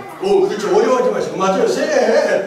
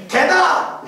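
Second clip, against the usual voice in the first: higher-pitched mock shout; retold shout; 5 semitones higher, much slower than usual. Man at the back calls out to the preacher, mock shout. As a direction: call it out like the heckling man. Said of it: "이렇게 소리쳤어요".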